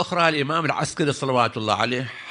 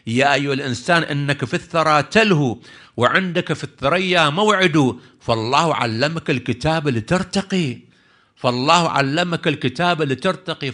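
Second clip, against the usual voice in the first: poem recitation. Acted. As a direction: declaim the verse, drawing out the rhymes.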